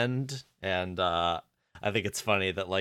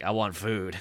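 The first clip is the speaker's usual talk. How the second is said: lightly imitated weird Cass voice; a hint of an Eric Andre impression; mildly odd character voice; 2 semitones lower, slower than usual. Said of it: "there's a little bit of that".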